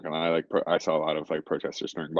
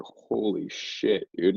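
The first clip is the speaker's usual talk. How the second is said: stunned disbelief; 3 semitones higher, much slower than usual. Retold or imitated. Witness recalling a baton blow to an interviewer, stunned. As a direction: stretch it out slowly, reliving the shock.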